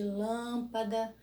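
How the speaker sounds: lâmpada with closed, nasal first â; closed vowel. Shown as a demonstration. Teacher giving circumflex example, closed vowel. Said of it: "Me dá um sonzinho fechado".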